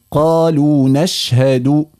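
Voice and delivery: نشهد ending cleanly in a short u, no added vowel; correct pronunciation. Shown as a demonstration. Teacher models نشهد for the caller, correct form. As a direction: say نشهد with a crisp short final u. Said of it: "قولي مثلي".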